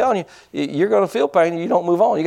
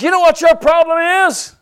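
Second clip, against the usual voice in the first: loud, high shouted challenge; half-acted angry yell at a man in the prayer line; retold yell; 13 semitones higher, 5 dB louder than usual. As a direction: bark it at him like a furious preacher. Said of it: "I yelled at him".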